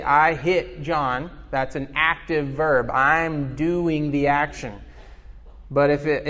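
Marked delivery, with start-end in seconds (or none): 0.0-1.3 slow example. Shown as a demonstration. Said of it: "if I say".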